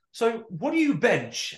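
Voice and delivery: slow, drawn-out curious question; slow nosy question. Retold or imitated. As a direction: stretch it out like a nosy stranger. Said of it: "So he goes".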